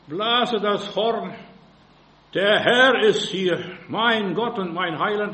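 slow, booming declaration; preacher crying out loud and slow; loud proclamation. Real, not acted. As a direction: blow the horn with your voice. Preaching at full force.

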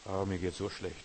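whiny prayer. Retold or imitated. Mocking a whiny complaining prayer.

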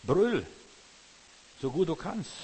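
loud, high bellow; preacher bellowing to show how to cry out; shout. Shown as a demonstration. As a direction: roar the word out as an example. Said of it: "Schrei, wenn es dir schlecht geht".

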